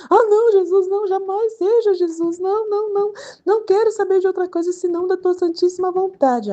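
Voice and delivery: very high, loud panicky begging; hammed-up scared backpedalling, voice shooting up; mock frightened pleading. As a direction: plead in exaggerated high-pitched alarm. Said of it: "e eu toda assustada".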